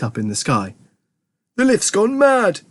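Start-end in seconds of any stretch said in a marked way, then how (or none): 1.5-2.6 high, drawn-out cry; high-pitched horrified yell; alarmed shout. A narrator's reading. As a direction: cry out in panic, stretching it. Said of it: "shouted Grandpa Joe".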